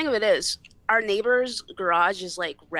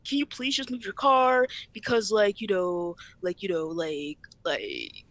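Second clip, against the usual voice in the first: stalling plea. Retold or imitated. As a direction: fumble for an excuse as you mimic her. Acts out sister's stalling request.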